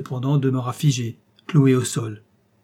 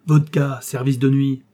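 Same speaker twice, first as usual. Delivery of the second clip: a louder barked order; shouted order; 4 dB louder than usual. Acted. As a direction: call out for the night service. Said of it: "lui cria le général".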